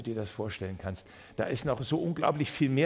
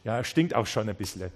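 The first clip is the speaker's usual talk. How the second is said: shrugging doubt. Pretend. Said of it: "dass du sagst".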